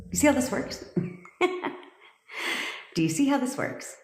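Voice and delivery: asking through real laughter; giggling question to viewers; laughing. Real, not acted. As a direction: laugh as you ask it, breathy and amused. Laughing at her own point.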